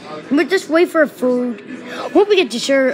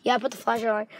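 much softer, low in the dark; hushed; 5 semitones lower, 12 dB quieter than usual. Pretend. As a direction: speak low in the sudden darkness. Lights out, speaking low.

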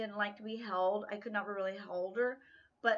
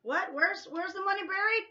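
playful mock alarm; 9 semitones higher, 7 dB louder than usual. Real, not acted. Joking about the money.

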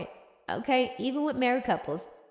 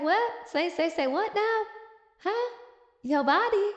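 higher, stammering double take; taken aback; 7 semitones higher than usual. Acted. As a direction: act baffled disbelief. Napier reacts to the joke.

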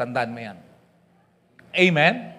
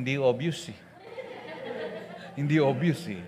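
laughing; 5 semitones lower, 6 dB quieter than usual. Real, not acted. Teasing a Pangasinan listener.

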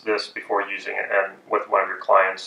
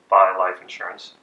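dropped tonality. Shown as a demonstration. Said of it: "dropped my tonality and say".

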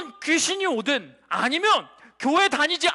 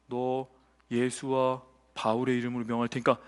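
exorcist's command; 13 semitones lower than usual. Acted. Priest's sons ordering out an evil spirit, low command into shout. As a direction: draw it out deep and hushed, then burst out. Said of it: "딱 이렇게 얘기한 거야".

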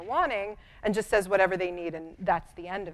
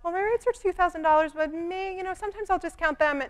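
hesitant, much higher, uncertain quote of the rate; wishy-washy rate; 11 semitones higher than usual. Shown as a demonstration. Wrong way to state your rate, hesitant and much higher. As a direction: sell your price unsure of yourself, like a question.

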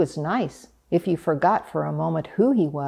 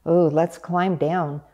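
pleading. Acted. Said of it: "Duck pleaded after a bit".

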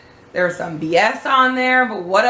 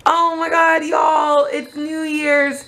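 surprised shout; 6 semitones higher, much slower than usual. Real, not acted. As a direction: blurt it out in shock. Sudden shocked exclamation.

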